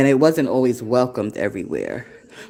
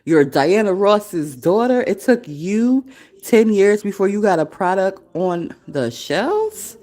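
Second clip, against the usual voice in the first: incredulous; 5 semitones higher, slower than usual. Retold or imitated. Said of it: "So she was like".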